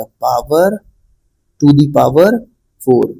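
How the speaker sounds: "power", then "to the power", pause, "four"; read out in parts. Shown as a demonstration. Teacher showing students how the name is spoken, read out in parts with pauses. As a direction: leave a clear gap before "four" after "to the power". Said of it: "उसको ऐसे बोला जाएगा".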